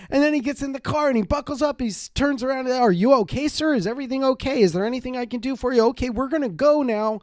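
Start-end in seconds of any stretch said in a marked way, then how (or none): 2.7-7.2 lightly voiced eager, high chirpy driver; a hint of a too-cheerful chauffeur fussing over you; giddy driver. Driver fussing over his passenger, mildly chirpy.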